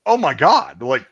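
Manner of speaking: high, loud dismayed wail; hammed-up distressed outburst; mock despair. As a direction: act out regretting everything. His despairing reaction to the punishment.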